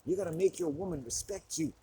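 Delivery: mock tough-guy advice, playful, climbing to a high squeal; alpha male impression. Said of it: "like an alpha black male".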